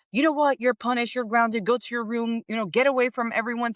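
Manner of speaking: stern scolding parent. Retold or imitated. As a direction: play the strict punishing parent, half in jest. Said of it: "it's not".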